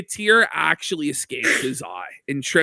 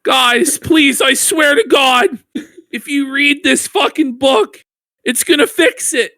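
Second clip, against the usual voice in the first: pleading voicing; 7 semitones higher, 4 dB louder than usual. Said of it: "He's like".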